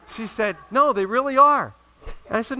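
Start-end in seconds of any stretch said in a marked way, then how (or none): 0.7-1.7 high, loud, drawn-out acted insistence; hammed-up emphatic contradiction; insistent retort. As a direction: argue back loudly, stretching the words. Acted back-and-forth argument.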